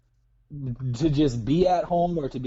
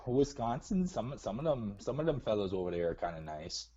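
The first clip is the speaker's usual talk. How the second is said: put-on Minnesota accent; 5 dB quieter than usual. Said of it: "Why are you talking like that?".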